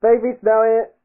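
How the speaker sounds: put-on high babyish voice. Shown as a demonstration. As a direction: talk like a little baby. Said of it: "I get to put on my baby voice".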